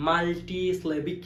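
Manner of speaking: মাল্টিসিলেবিক slow, split মাল, টি, স্লেবিক; syllable by syllable. Shown as a demonstration. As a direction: separate beats on মাল্টিসিলেবিক, rising at the end. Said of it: "ভাগ ভাগ করে উচ্চারণ".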